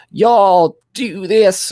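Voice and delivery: high, loud, drawn-out imitation of a Black American accent; mock Black American accent. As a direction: mimic her badly faked Black accent, slowly. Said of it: "trying to do a black accent".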